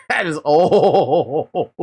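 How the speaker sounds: drawn-out amazement. Real, not acted. Amazed at the video's age.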